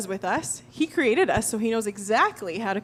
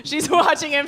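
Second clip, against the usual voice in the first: laughing; 4 semitones higher, 4 dB louder than usual. Real, not acted. Laughing while telling Heidi story.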